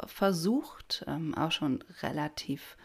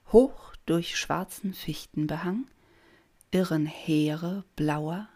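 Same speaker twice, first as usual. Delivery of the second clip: measured poetry reading with long pauses; poem recitation. Acted. Podcast host reads November to listeners, measured poem recitation. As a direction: recite it line by line, letting each image stand.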